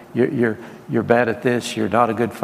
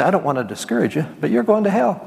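mock blunt warning; 8 semitones higher than usual. Mock blunt reply to hopeful person.

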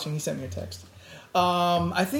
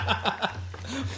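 camel grumble; 4 semitones higher, 6 dB quieter than usual. Pretend. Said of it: "That was my impression".

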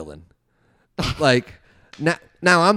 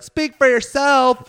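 high, loud, slow objection; mock indignant shout; 12 semitones higher, 7 dB louder, slower than usual. Imagined student objecting to the teacher, mock indignant shout. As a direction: call it out slowly as a hammed-up protest.

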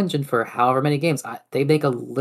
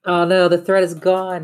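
mock dismay; 6 semitones higher, 7 dB louder than usual. Hammed-up dismay at lost thought.

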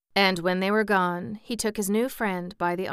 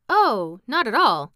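lifted, louder cheerful politeness; pleasant; 5 semitones higher, 10 dB louder than usual. A narrator's reading. Jack politely answering whether he is hungry, pleasant. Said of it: "answered Jack more pleasantly".

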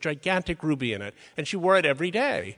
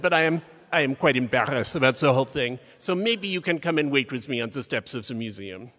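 imitated French accent, measured and polite. Embarrassed curator asking a colleague to wait with her, imitated French accent. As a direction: ask a favour in a lightly put-on French accent. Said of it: "in her amazing French accent".

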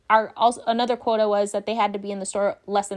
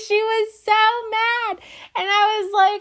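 laughing; 11 semitones higher, 3 dB louder, slower than usual. Real, not acted. Laughing while retelling coworker's rage.

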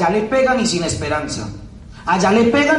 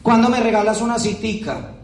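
hammed-up pleading salesperson with a laugh; mildly mock a needy, wheedling pitch; a light parody of someone begging for a meeting. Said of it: "Como si estuvieras pidiéndome, eh, limosna".

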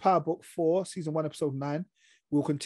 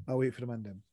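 laughing; 4 semitones lower, 7 dB quieter, faster than usual. Shown as a demonstration. Repeats line again, laughing.

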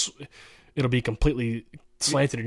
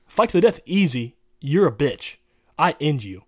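trash talk; 2 semitones higher, 5 dB louder than usual. Real, not acted. Trash talk fight challenge.

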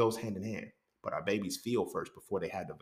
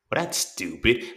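slow, dismissive put-down; slow sneering put-down; condescending; 4 dB louder, slower than usual. Retold or imitated. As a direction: talk down to the child. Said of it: "in such a condescending way".

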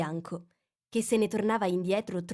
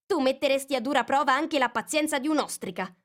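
peevish; 7 semitones higher, 5 dB louder than usual. A narrator's reading. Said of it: "un po' stizzita".

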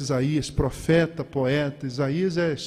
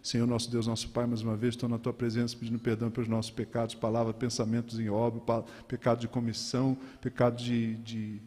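imitação de reza decorada, baixa e monocórdica; reza de crente; 5 semitones lower than usual. Acted. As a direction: recite como oração automática de crente, em tom grave e uniforme. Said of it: "Já viu reza de crente?". (reza de crente recitada no automático)

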